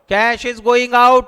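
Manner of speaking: stretched out word by word; slow, deliberate dictation. Shown as a demonstration. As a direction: dictate it slowly for notes.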